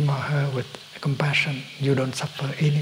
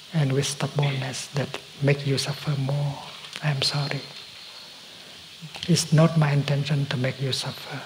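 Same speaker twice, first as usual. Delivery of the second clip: gentle, tender plea, softer with some whispered words; loving speech; 3 dB quieter than usual. Shown as a demonstration. To a suffering loved one, as an apology: tender loving speech. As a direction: speak softly to someone you hurt, asking them to open up. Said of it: "That kind of speaking we call a loving speech".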